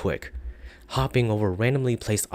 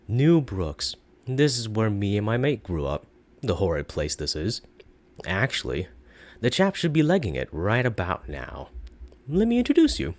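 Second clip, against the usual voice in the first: dry monotone snark, falling at each end; deadpan sarcastic narrator in a British Isles accent; snarky accented narrator. Acted. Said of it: "with a bit of snark in his accent".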